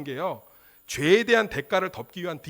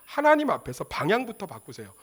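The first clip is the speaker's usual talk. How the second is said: normal talking voice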